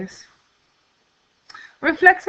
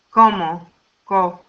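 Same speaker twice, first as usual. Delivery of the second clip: Como, pause, then its stressed "co"; stressed syllable demo; 3 semitones lower, 3 dB louder than usual. Shown as a demonstration. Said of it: "stress on the next to the last syllable".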